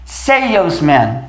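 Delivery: Salesman drawn out, seils-man; slow salesman. Shown as a demonstration. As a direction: model salesman slowly. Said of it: "nós temos salesman".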